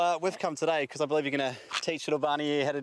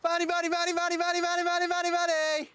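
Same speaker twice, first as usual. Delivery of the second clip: squeaky sing-song call; high-pitched dog calling. Real, not acted. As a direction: coax the dog from far off in a high voice.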